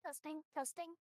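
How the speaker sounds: digitally altered voice; voice changer voice. Real, not acted. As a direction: talk through a voice changer. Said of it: "turn on my voice changer".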